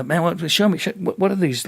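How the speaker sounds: high-pitched imitation of an eager student; eager pestering. Student running up to guys daily, high eager pestering. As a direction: pester them for help, pitched right up. Pestering classmates, acted in story.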